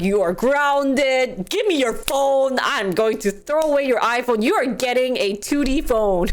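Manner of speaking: mock stern parental orders; scolding parent. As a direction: pretend to hand down punishments as a parent. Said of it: "if you are the parent".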